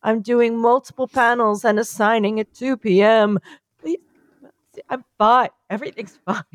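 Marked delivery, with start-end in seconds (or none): 3.8-6.4 crying, worn out. Acted. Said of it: "you sound like you're crying and haunted".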